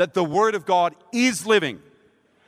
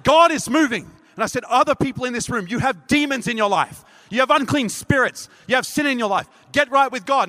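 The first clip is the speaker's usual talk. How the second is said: commanding call; 5 semitones higher than usual. Retold or imitated. Preacher commanding the room.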